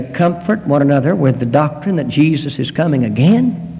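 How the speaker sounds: doubting question, rising on "again". Retold or imitated. Listener puzzled by the doctrine, questioning with a rise on "again". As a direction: lift "again" into a query. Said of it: "And you say".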